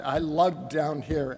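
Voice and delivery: "lugged" leaned on, line slowed down; stress on LUGGED. Real, not acted. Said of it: "I emphasize the word lugged".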